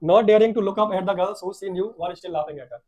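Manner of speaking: very slow English reading; read-aloud story. A narrator's reading. Teacher reads how Bholi noticed the teacher, slow story reading. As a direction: read each word out deliberately.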